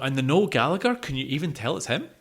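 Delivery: ordinary talk, nothing marked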